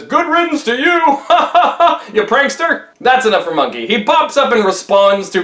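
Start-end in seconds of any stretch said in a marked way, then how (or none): 0.0-2.9 high, jeering voice with a ha-ha-ha; mocking laughter. A narrator's reading. Pigsy laughing at Monkey, high mocking jeer. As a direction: crow it high, with an acted laugh. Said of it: "Pigsy laughs at Monkey and says".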